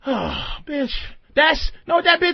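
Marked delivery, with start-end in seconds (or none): 0.0-0.9 weary sigh. Shown as a demonstration. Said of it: "different inflections of bitch".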